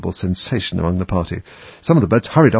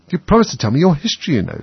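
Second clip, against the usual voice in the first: put-on young Alice voice; 6 semitones higher, 3 dB louder than usual. A narrator's reading. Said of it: "said Alice".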